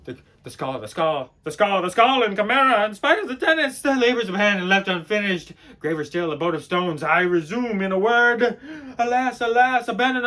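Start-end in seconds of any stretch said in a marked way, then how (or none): 1.4-5.5 raised, loud, insistent rant; frantic climax. Acted. Raving about the skull, loud and frantic. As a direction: hurl the repeated words out.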